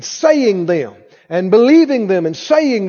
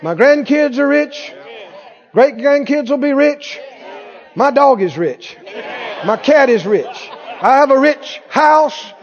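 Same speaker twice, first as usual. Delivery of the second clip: higher-pitched, punchy rallying list; preaching confession; 5 semitones higher than usual. Shown as a demonstration. Preacher showing congregation what to say, declaring. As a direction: chant each claim like a rousing declaration. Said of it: "You need to say".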